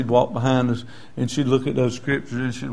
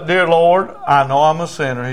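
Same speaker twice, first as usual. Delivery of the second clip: raised voice, line for repeating; louder opening, settling toward the end; leading a prayer; 2 semitones higher, 5 dB louder than usual. Retold or imitated. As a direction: lead the sinner's prayer firmly. Preacher leads prayer for repeating.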